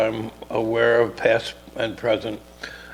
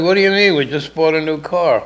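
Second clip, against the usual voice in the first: wife voice; 4 semitones higher, 5 dB louder than usual. Retold or imitated. Wife reacting to his doubts.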